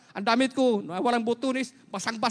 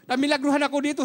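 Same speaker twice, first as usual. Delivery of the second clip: half-shouted testimony of healing; joyful shout; 5 semitones higher than usual. Retold or imitated. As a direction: call it out like a small miracle claim. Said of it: "Ah, sumigaw ako".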